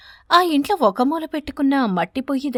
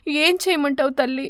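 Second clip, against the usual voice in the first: tearful; 3 semitones higher than usual. Acted. Poor mother despairs.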